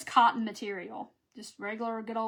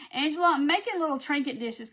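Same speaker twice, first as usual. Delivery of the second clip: excited; 4 semitones higher, 5 dB louder than usual. Real, not acted. Greeting a viewer with a laugh.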